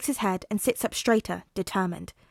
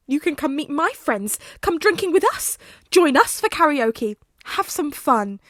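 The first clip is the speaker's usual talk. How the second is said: higher, louder excited gush; eager invitation; 6 semitones higher, 7 dB louder than usual. Acted. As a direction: pile on the fun, bubbling over. Tensei eagerly inviting Hazashi along.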